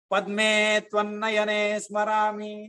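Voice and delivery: slow, measured Sanskrit chant; slow Sanskrit verse recital; shloka recitation. Acted. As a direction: recite the verse with devotion, slowly. Quotes shloka line.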